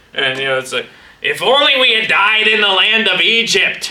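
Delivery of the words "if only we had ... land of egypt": put-on accent mixing Yiddish and Boston. Acting out complainers in a story for kids, in a weird Yiddish-Boston accent. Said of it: "almost like a combination of a Yiddish Boston accent".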